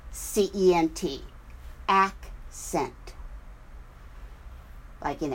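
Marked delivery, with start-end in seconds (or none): 1.9-3.1 accent broken in two, AC ... cent; syllables split. Shown as a demonstration. Teacher spelling out the word, accent split after AC.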